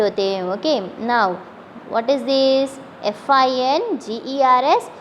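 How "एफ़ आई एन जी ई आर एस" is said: spelling out letters. Shown as a demonstration.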